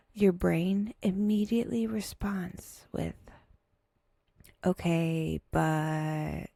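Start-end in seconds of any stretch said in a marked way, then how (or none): 4.6-6.5 drawn-out, level, lower-pitched hesitation; grudging reservation. Acted. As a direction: let the doubt hang on a stretched "but". Brain's grudging reply, acted.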